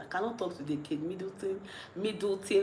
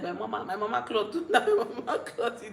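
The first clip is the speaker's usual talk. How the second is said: laughing reply; 5 semitones higher than usual. Retold or imitated. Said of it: "I'm just like".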